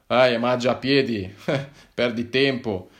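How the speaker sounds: sneering repeat of his excuse, with a laugh; mocking echo. Policeman ridicules the traveller's walking excuse, mocking. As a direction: throw his own words back at him, laughing.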